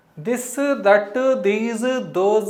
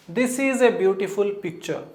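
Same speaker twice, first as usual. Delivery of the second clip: slow dictation reading; much slower than usual. Shown as a demonstration. Teacher reads example sentence aloud.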